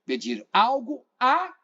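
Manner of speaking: teacher slowing to land on "a"; stress on a. Shown as a demonstration. Teacher shows students the preposition, stressing "a". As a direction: lean on the little "a", drawn out. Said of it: "a preposição regida pelo verbo pedir".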